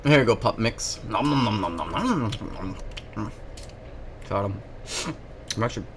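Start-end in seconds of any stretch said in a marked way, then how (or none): 1.1-3.3 fading nom nom chewing sounds; munch noisily, trailing off; mock eating noises. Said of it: "I'll eat your fucking burger".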